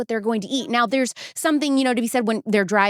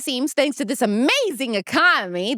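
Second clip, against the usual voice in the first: sarcastic; 3 semitones higher than usual. Acted. Host mocking the economy in an ad, sarcastic. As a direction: gush with obvious sarcasm. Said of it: "That was sarcasm".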